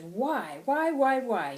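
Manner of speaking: insistent, swelling demand; angry, passionate. Acted. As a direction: hammer each word with indignation. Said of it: "I'm very angry and I'm very passionate".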